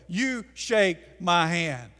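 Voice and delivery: usual speaking voice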